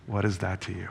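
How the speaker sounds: a soft, loving reply to Peter; lovingly. Retold or imitated. Jesus gently answers Peter, softly loving. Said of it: "And Jesus says lovingly".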